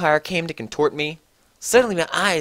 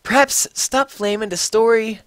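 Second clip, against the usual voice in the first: put-on higher, louder petulant teen; snotty teen voice; 7 semitones higher, 4 dB louder than usual. A narrator's reading. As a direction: whine at the critics. Author's note voice.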